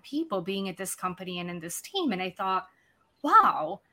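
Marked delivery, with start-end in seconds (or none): none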